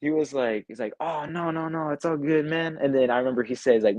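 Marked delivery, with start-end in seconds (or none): 1.0-2.8 reassuring. Retold or imitated. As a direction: brush off the apology kindly, imitating him. Producer reassures the apologetic kid.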